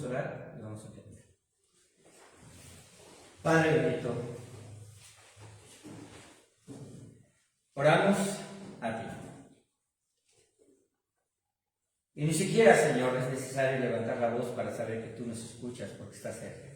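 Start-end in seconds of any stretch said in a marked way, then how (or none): 3.4-15.9 earnest spoken prayer to the Father, swelling and fading. Acted. Pastor praying aloud to God for the church, earnest prayer. 15.9-16.7 whispered, breath only. Shown as a demonstration. Pastor showing God hears even a whisper, whispered. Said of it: "con la voz baja".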